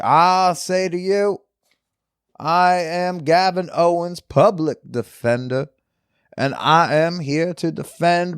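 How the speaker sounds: a hint of a progressive Southern lawyer pleading his case. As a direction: play a grandstanding public defender, unhurried. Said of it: "Kinda sounds like a progressive Southern lawyer".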